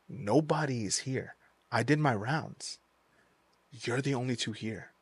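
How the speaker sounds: understated eerie seriousness; ominous reveal. Retold or imitated. Guard's chilling reveal in ghost story.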